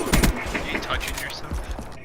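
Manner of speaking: whispered slowly, breathy tease; slow teasing whisper. Pretend. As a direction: hush it out like a creepy joke.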